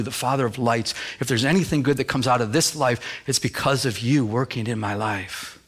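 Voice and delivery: modelled prayer of surrender. Acted. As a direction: humbly address God, voice dropped. Acts out a prayer.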